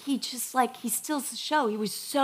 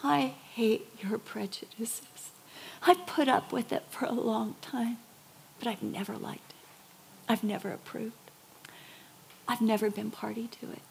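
a hushed, softer whispered rebuke; quiet whisper; 5 dB quieter than usual. Retold or imitated. The Lord speaking to the preacher, whispered rebuke. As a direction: voice God's words as a stern whisper. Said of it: "And the Lord said to me".

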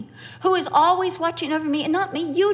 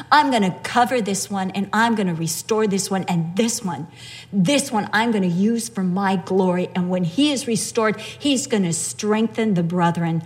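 voicing Jesus; 4 semitones lower than usual. Preacher voicing Jesus to Satan.

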